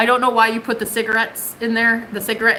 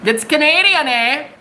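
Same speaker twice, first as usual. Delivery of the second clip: lightly hammed Canadian, pitched up; mock Canadian accent; 4 semitones higher, 3 dB louder than usual. Reader excusing the teasing of Canadians, mock Canadian accent. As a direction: lift it into a playful Canadian "eh". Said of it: "God, it's so offensive".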